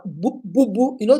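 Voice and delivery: imitating an ugly cry with booing sobs; mock ugly cry. Preacher mimics the husband's ugly cry, mock sobbing. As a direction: mimic a man bawling, boo boo. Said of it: "the ugly cry".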